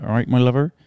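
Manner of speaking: light West Country lilt, rising at the end; West Country accent. Acted. Mimicking a chicken from the West Country, West Country accent. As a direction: put on a friendly West Country greeting. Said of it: "If they're from the West Country, they're like".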